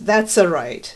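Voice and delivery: lightly imitated Italian accent; mild mock Italian. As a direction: quote it with a touch of Italian accent. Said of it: "still in an Italian accent".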